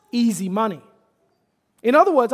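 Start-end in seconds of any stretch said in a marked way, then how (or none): 1.8-2.3 louder restatement. Acted. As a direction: launch into the son's pitch with energy. Launching into the son's voice.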